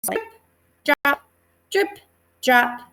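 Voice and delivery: rain sounds, rhythmic. Shown as a demonstration. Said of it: "I can hear that rain start".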